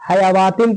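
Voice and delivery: हयावातिन with an extra "waa" before "tin"; wrong reading. Shown as a demonstration. Teacher listing students' mistakes, waw pronounced. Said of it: "गलत पढ़ते हैं".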